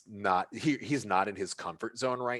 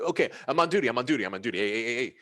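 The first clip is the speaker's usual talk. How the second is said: nervous bouncer; 6 semitones higher, 7 dB louder, much faster than usual. Acted. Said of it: "it's like".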